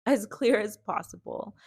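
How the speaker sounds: slow, laughing through the words; amused inner vow; laughing thought. Retold or imitated. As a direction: chuckle at your own resolve. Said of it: "I'm like".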